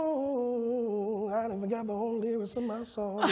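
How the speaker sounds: laughing. Real, not acted.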